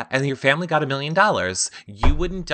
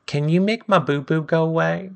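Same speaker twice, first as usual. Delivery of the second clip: put-on babyish Joe; 4 semitones higher than usual. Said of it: "when Joe's like".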